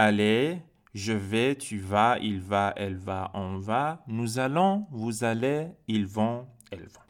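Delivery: measured conjugation recital, short pauses between forms; repeat-after-me drill. Shown as a demonstration. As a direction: model each form for learners to echo. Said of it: "Encore une autre fois".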